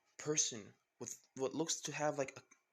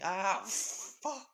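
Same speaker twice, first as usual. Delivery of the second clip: higher laughing swear as the ground gives way; half-laughed alarm; laughing curse; 7 semitones higher, 4 dB louder than usual. Acted. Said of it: "With then instantly Izuku saying".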